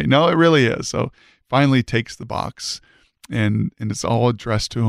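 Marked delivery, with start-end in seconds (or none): 0.0-0.9 higher, firm pushback; acted insistence, pitch lifted on "really"; insistent. Acted back-and-forth over the package.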